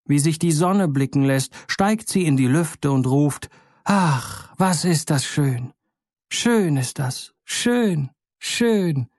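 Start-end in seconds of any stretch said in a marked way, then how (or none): 3.8-9.1 joyful lark. A narrator's reading. Lark rising into the sky.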